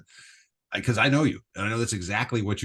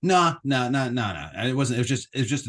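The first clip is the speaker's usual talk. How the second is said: denying; 5 semitones higher, 5 dB louder than usual. Real, not acted. Denying swerving jokingly.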